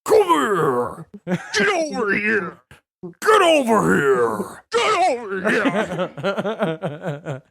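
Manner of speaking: gravel game villain call; half-laughed ninja growl; Scorpion. Acted. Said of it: "I have a fucking good Scorpion impression".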